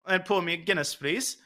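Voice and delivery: lightly attempted Irish accent; bad Irish accent. Teasing the co-host by asking for a Guinness, bad Irish accent. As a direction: have a rough go at an Irish accent. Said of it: "with that accent".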